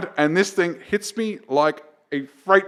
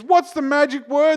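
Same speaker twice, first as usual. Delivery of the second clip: high, slow sing-song question; to the kindergarten kids, sing-song; playful teacher tone; 13 semitones higher, 5 dB louder than usual. Retold or imitated. Cop teasing kids.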